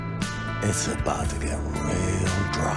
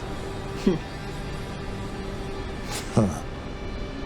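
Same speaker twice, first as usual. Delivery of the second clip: menacing chuckle; 5 dB quieter than usual. Acted. Benny ends his threat, amused.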